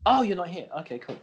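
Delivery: usual speaking voice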